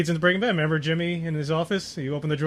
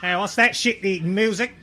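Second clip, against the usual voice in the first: put-on New Zealand accent; 2 semitones higher than usual. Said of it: "That's just my New Zealand accent".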